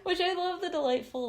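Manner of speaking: high, loud, laughing speech; real laughter. Real, not acted. Reader delighting in the book's absurd detail, really laughing. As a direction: talk on through the tail of a laugh.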